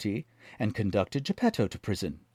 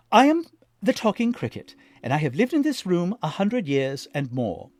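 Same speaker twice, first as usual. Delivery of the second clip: put-on higher old cricket voice; talking cricket; 8 semitones higher, 5 dB louder than usual. A narrator's reading. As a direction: speak as the wise old cricket.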